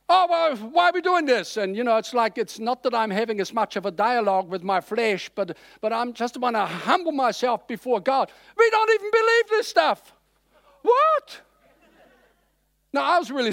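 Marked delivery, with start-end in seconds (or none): 0.1-1.6 high, louder mock-complaining voice; whiny flesh. Preacher imitating his flesh grumbling about fasting, mock whine. 8.6-10.1 high, loud mock-scoffing voice; doubting flesh. Preacher voicing the unbelief rising in him, mock scoffing. 10.8-11.4 high, loud startled what; shocked reaction. Retold or imitated. Preacher shocked at hearing unbelief inside himself, startled.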